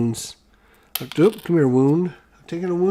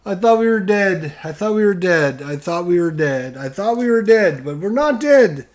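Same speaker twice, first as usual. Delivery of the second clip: breathless relieved repeats; rushing relief; 3 semitones higher than usual. Real, not acted. Relief after surviving the roll.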